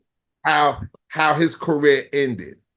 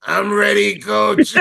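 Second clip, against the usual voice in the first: high mock voices; 5 semitones higher than usual. Voicing coach and Amari.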